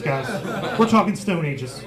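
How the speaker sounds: usual speaking voice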